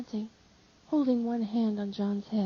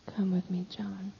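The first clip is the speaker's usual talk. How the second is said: soft, hushed whisper; 6 dB quieter than usual. Acted. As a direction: quietly coax him along. Mary leads John away softly.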